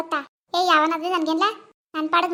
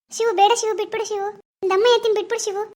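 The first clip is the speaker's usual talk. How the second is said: pleading; 3 semitones higher than usual. Acted. Pooja begs Shivu to stop beating the goon, frightened plea. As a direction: beg him to stop the fight.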